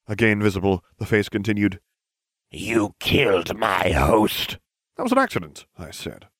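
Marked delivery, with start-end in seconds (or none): 2.5-4.6 slow, heavy villainous accusation; accusing Dark Lord. Acted. 5.0-5.7 high-pitched quick denial; defensive protest. Acted.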